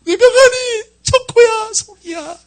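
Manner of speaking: very high, mock tearful wail; imitated child crying. Child mourning the chick sold at market, high imitated crying. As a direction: wail for a lost pet like a sobbing child. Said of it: "집에 와가지고 막 울어요".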